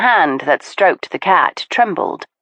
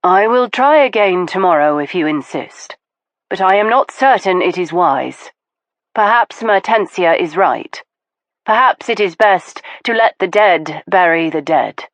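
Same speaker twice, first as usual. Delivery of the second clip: gentle voice; 2 semitones higher than usual. Acted. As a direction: speak gently, doubtful. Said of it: "in her usual gentle voice".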